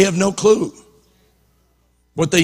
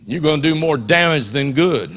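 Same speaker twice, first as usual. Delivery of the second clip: calm Holy Spirit; 5 semitones lower, 3 dB quieter than usual. Retold or imitated. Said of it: "I hear the Holy Spirit going".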